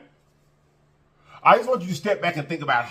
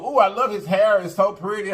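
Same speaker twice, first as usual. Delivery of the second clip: gushing lady voice; 4 semitones higher than usual. Retold or imitated. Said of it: "she said".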